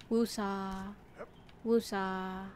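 soft, drawn-out mellow chant; calming. Retold or imitated. Streamer imitating a biology teacher who calmed herself, calming. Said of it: "she had, like, a very calming voice".

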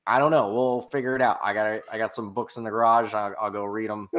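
lightly mimicked entrepreneur brushing off doubts; a hint of an improvising pitchman; Tai Lopez. Host mimics entrepreneur answering his doubting crew, light impression. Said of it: "Tai Lopez is so good".

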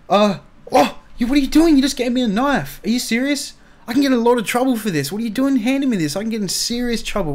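high, loud panicked protest. Acted. Prisoner panics after Beth hands him a knife, high frantic protest. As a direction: freak out about holding a knife.

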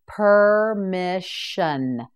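very slow, drawn-out syllables; slow model word. Shown as a demonstration. Teacher models the word for students, very slowly. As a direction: stretch each syllable so they can copy. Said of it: "Now you try it".

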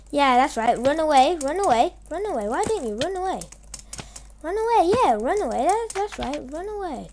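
mock the enemy as he flees; taunting. Real, not acted. Player taunting the enemy running away, sing-song taunt.

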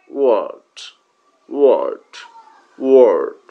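ওয়ার্ড with a long pressed ur vowel; model pronunciation. Shown as a demonstration. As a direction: say ওয়ার্ড slowly for learners to copy. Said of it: "ঠিক একইভাবে".

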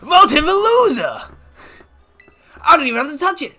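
put-on high, thrilled Southern old-timer; horrible Southern accent. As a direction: gush in a hammed-up Southern accent. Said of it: "I did a horrible Southern accent".

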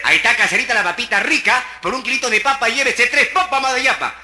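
loud market hawking; vendor calling out. Acted. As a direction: cry your wares to the customers.

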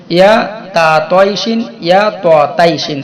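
ইয়া তা তয়শিন with a long তা, then ইয়া ত তাইশিন with a short ত; careful pronunciation. Shown as a demonstration. Teacher pointing out তা versus ত to students, careful pronunciation. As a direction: spell out তা before ত so the difference is clear. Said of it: "একটু আপনারা লক্ষ্য করবেন".

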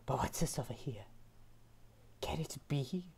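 hushed awe, then a gasp; nature documentary. Pretend. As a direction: discover a rare specimen in awe. Mock discovery of a flower.

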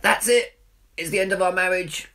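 high, loud melodramatic cry; mock outburst. Husband overreacting to a tiny row with his wife, shouting high in mock despair. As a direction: ham up a tiny row into catastrophe. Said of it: "and I'll be like".

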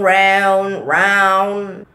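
drawn-out Texas "round". Shown as a demonstration. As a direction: stretch the "ou" in "round". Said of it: "apalagi yang kayak O U N". ("round" dengan logat Texas yang dipanjangkan)

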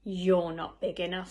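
loud, dismissive put-down; bad-tempered scoff. A narrator's reading. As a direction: scoff loudly like a cocky little ladybird. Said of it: "said the bad-tempered ladybird".

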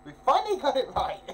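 loud, high cheer; excited shout. Real, not acted. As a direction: celebrate loudly. Triumphant shout.

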